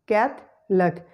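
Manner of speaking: slow "Catholic" in two parts, CATH, lick; schwa eliminated. Shown as a demonstration. Teacher drilling the hack, "Catholic" slowly split as CATH-lick. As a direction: split "Catholic" with no middle vowel. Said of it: "schwa sound is eliminated".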